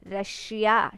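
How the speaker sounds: "रशिया" with a clear sh in the middle; sh sound. Shown as a demonstration. Teacher after spelling the word, "रशिया" with clear sh. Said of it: "श का sound आ रहा है".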